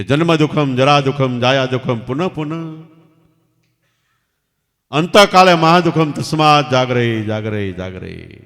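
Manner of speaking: put-on boy's loud chanted call, fading on the last jagare. Boy calls the verse out loud to the king on the balcony. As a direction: call the verse out loud to the king, then let it die away. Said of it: "છોકરાએ જોરથી રાડ પાડીને કીધું".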